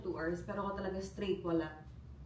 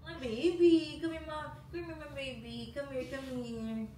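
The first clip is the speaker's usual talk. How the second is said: cooing; 3 semitones higher than usual. Real, not acted. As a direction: coax the pet over tenderly. Mom coos to pet.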